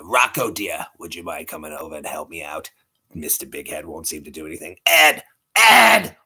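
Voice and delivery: cartoon mom voice ending in a yell; Missus Big Head. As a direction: sweet-talk Rocco, then holler for Ed. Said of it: "Missus Big Head from".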